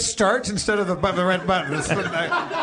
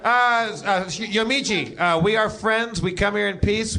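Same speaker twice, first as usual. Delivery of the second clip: diplomatic parley; 3 semitones higher, slower than usual. Acted. Player parleys with garden guard.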